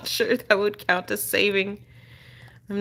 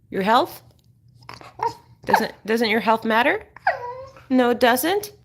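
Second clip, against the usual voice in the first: mock whimper; 4 semitones higher than usual. Owner pleads with dog.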